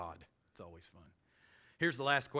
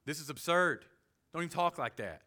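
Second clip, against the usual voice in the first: scornful Paul. Retold or imitated. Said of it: "I think he wanted to say".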